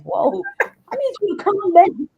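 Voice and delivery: laughing. Retold or imitated. Her reaction to the therapist's praise.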